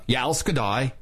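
slow, lightly Scandinavian-accented toast; Norwegian accent. Shown as a demonstration. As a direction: say it slowly with a Norwegian, almost Swedish lilt. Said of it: "You said that with an Australian accent".

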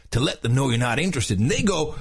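lightly voiced surfer narrator; mild surfer-dude narration. Shown as a demonstration. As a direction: keep a touch of surfer dude. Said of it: "the whole thing in a surfer's voice".

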